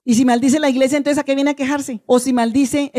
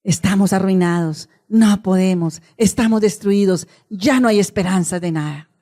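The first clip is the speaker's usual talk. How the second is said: lower, heavy hopeless voice; despairing lament; 4 semitones lower than usual. Retold or imitated. The people of God lamenting, low and hopeless. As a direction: mourn it like dry bones. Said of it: "Era el pueblo diciendo".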